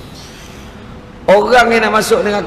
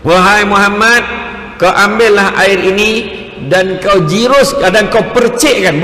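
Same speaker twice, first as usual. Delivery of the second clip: lightly voiced solemn messenger; slightly raised, drawn-out instruction; Jibril; 3 semitones higher than usual. Angel instructing the Prophet about the water, measured proclaiming voice. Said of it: "dia kata".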